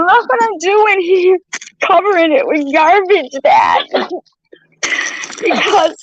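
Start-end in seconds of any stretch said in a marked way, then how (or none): 0.0-3.9 crying outburst. Real, not acted. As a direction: wail it out in despair. Crying while covering the car.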